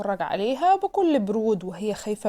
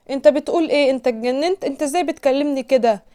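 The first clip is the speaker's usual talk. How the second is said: higher, louder indignant protest; outraged; 5 semitones higher, 5 dB louder than usual. A narrator's reading. Woman insulted by her jealous boss, indignantly confronting him. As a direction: push back, offended and incredulous.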